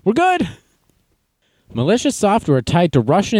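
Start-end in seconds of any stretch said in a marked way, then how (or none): 0.0-0.5 high put-on smug voice; a hint of cocky boss, pitched up; smug self. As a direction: brag lightly in a silly high voice. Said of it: "I'm like".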